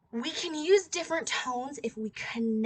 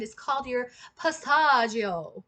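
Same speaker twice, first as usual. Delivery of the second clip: playful Mario Italian accent; 4 dB louder than usual. Shown as a demonstration. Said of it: "my Mario accent".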